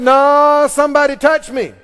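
a preacher voicing Jesus insisting; insistent Jesus. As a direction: stand your ground, someone touched you. Jesus insists in retold scene.

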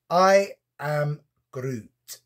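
slow, drawn-out Scottish I am Groot; a playful Scottish-accented Groot. Retold or imitated. Vlogger voicing the Groot figure in Scottish accent. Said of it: "I said Groot in a Scottish accent".

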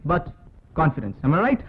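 slow, declaiming film hero speech; rehearsing a speech. Pretend. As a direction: deliver it like a grand screen monologue. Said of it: "நான் என் வீட்ல நடிக்கிறேன்". (மிக மெதுவான மேடைப் பேச்சு போல ஒத்திகை)

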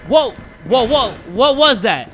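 loud, rapid startled stammer; startled, odd delivery. Real, not acted. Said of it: "Why did I say it like that?".

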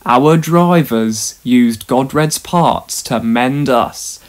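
slow, mildly mournful. Acted. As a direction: let it out slowly, a touch of grief. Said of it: "answered Caldy mournfully".

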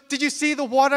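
high, eager question, imitated; excited bride. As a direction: ask it like a thrilled bride. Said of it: "so excited".

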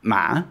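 ma dipping then rising; questioning tone. Shown as a demonstration. Teacher demos the asking tone for learners. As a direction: ask with ma. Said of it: "questioning tone".

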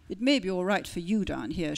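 pouting. Acted. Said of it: "she pouted".

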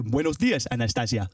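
"Buenos dias, Anastasia" with exaggerated Spanish sounds; over-articulate "Buenos dias, Anastasia" as Spanish; correct Spanish pronunciation. Shown as a demonstration. Showing the British audience, "Buenos dias, Anastasia" in exaggerated Spanish. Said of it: "The correct pronunciation".

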